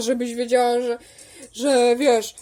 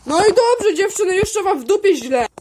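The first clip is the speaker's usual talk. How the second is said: play-acted scolding; 5 semitones higher, 3 dB louder than usual. Acted quarrel, scolding the girls.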